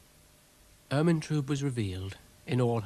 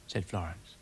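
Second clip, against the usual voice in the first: plain reading voice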